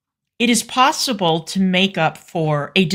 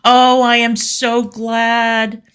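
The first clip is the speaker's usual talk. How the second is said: slow drawn-out sarcastic delight, higher; mock gushing; 4 semitones higher, 4 dB louder, slower than usual. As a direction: stretch the oh, fake delight. Mock gushing reply to fan.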